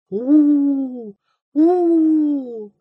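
fearful howl of disgust; shuddering oo. A narrator's reading. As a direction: shudder at a hideous face. Narrator shudders at the face.

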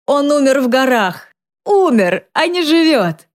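high, wild, near shrieking; raving cry. A narrator's reading. Drunk mother raving about the death, wild cry. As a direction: rave at the daughter, half mad.

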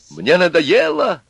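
wife bursts out, fed up, raising her voice; shouting. A narrator's reading. Wife shouts at drunk husband she is fed up. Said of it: "закричала Вера Сергеевна".

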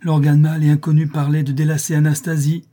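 pompous jealous outburst; indignant exclamation. A narrator's reading. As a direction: proclaim it in outraged disbelief. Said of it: "s'écria-t-il".

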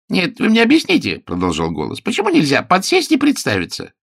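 a nervous man talking his way out; high-pitched anxious pleading from inside a wardrobe; frightened detective voice. A narrator's reading.

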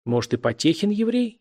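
sly needling question, pitched high; snide. A narrator's reading. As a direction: ask it with malicious glee. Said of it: "ехидно спросил Лёва". (ехидно)

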